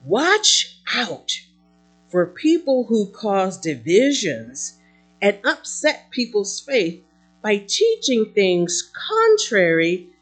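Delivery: measured, emphatic preacher's reading; emphatic scripture reading. Acted. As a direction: read the apostle's letter out to the congregation. Reads Paul's letter aloud.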